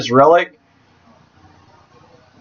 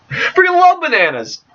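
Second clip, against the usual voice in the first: high silly voice; 9 semitones higher than usual. Acted. Banana joke continues.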